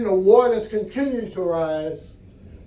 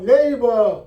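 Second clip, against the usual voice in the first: calling out to a neighbor; 5 semitones higher than usual. Acted. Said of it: "And he called out".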